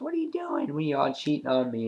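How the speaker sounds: imitating an accusing, jealous girlfriend; mock suspicion, starting high. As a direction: play a jealous girlfriend lightly. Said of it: "his girlfriend's all jealous".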